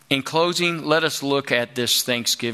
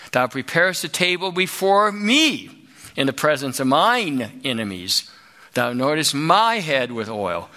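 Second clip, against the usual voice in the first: slow, weighty reading of the Lord is my shepherd; emphatic psalm reading. Shown as a demonstration. Preacher reading the psalm with emphasis to congregation. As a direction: lean into each line like scripture aloud. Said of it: "there's an emphasis here".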